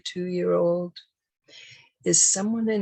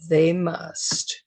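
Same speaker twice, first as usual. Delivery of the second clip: MUST set apart and firmly emphasized; stress on MUST. Real, not acted. Speaker telling parents what two-year-olds have to do, MUST emphasized. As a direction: lean on the word "must" after a pause. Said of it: "I emphasize the word must".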